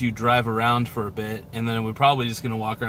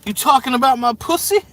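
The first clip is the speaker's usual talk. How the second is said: mock tough-guy challenge; 10 semitones higher, 5 dB louder than usual.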